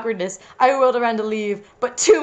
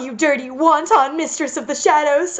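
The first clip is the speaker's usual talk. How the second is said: tearful scream, only mildly raised; higher-pitched, understated scream; mock scream; 4 semitones higher than usual. Reader as jilted girlfriend confronting mistress, mild mock scream. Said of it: "I screamed at her".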